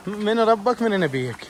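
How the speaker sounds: من ربك من نبيك drawn out very slowly, mock solemn; slow solemn grave questions. Retelling the joke to the camera, slow mock-solemn intoning. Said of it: "يقول انزلق هنا".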